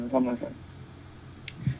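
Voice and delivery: soft, slow whisper; hushed, slow, knowing aside. Real, not acted. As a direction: drop to a slow secretive whisper. Coy repeated remark.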